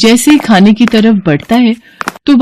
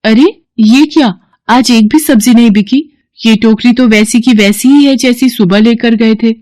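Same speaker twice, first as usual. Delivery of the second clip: surprised wife; 4 semitones higher than usual. Acted. Wife sees the unsold full basket, surprised and higher. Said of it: "बोली".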